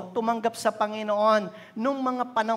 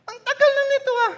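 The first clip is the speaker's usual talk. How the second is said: put-on child voice; 7 dB louder, much faster than usual. Children finding dad's Bible.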